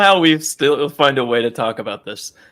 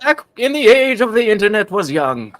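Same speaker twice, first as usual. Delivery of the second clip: storyteller voice; 6 semitones higher, 3 dB louder than usual. Pretend. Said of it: "we're doing voices now".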